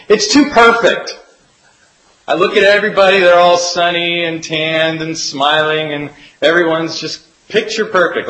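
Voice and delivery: lightly voiced friend Nora, fed up with perfection; exasperated friend. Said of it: "Nora commented and said".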